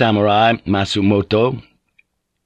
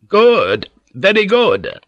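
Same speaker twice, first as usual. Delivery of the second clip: high-pitched, louder exclamations; startled praise; 11 semitones higher, 4 dB louder, slower than usual. Acted. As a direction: exclaim it high after a sudden fright. Nervous Jozen praises the charge.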